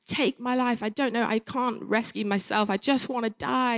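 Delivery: crying out to God, pitch up but not full volume; retold shout at God. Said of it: "I just shouted at, you know, shouting at him".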